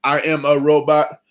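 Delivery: a hint of a stiff robot; Conan O'Brien robot voice. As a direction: toy robot voice, lightly done. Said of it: "when he goes".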